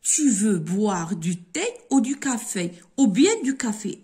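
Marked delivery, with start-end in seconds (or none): 3.0-4.0 « Ou bien » said higher and louder; ou bien stressed. Shown as a demonstration. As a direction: push ou bien out. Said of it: "c'est-à-dire ou son accent". (accent sur « ou bien »)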